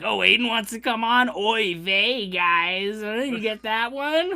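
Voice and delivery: high, loud teasing imitation; mock dog whistle. Retelling a co-host's earlier remark, hammed-up dog-whistle imitation. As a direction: pitch it up in a hammy nudge-nudge mimicry. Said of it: "dog whistle at the beginning when he was like".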